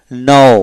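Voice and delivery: নাও drawn out slowly on its o glide; o vowel sounded. Shown as a demonstration. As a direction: stretch the rounded end of নাও. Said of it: "ওকার". (নাও, টেনে ওকার দিয়ে)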